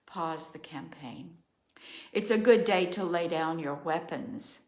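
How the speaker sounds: measured, ritual oracle cadence; steady solemn litany; incantatory reading. Acted. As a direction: chant each line like a decree. Reads her channeled journal message.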